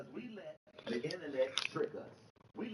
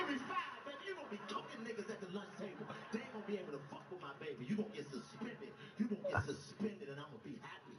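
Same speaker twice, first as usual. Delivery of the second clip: proud dad; 8 semitones higher than usual. Retold or imitated. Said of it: "I was like".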